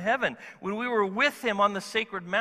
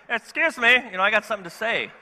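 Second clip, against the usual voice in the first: pushy interruption; 3 semitones higher, 5 dB louder, faster than usual. Retold or imitated. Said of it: "This is not a time to go".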